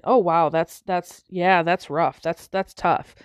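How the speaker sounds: low, understated commiseration; murmured-along sympathy, pitched low; lightly acted older man commiserating; sympathetic head-shaking. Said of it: "shaking his head, nodding".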